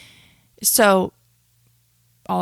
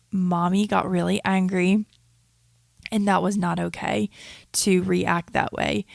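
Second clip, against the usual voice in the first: put-on gentle apology to child. Mom apologizing to her toddler, calm and gentle. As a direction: get down on her level and own it gently. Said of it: "I will get on her level and I will say".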